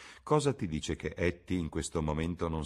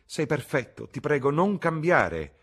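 higher, louder and slow, a languid plea; Lord Henry, urging; 10 semitones higher, 8 dB louder than usual. A narrator's reading. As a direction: savour each word as the worldly lord. Lord Henry pleading, slowed.

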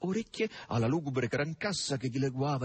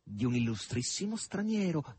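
meaningfully. Acted. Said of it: "disse significativamente il rosso".

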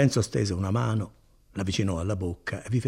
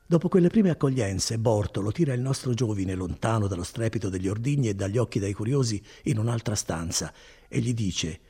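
ordinary delivery

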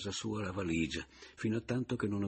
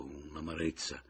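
ordinary delivery

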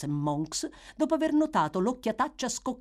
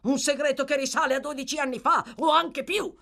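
higher, quick, rising to a lift; firm indifference; 10 semitones higher, 6 dB louder, faster than usual. A narrator's reading. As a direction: brush off his doubts briskly. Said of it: "decisa indifferenza".

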